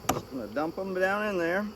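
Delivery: easy rural hillbilly twang; drawled-out hillbilly accent talk. Real, not acted. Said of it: "I'm talking like a hillbilly".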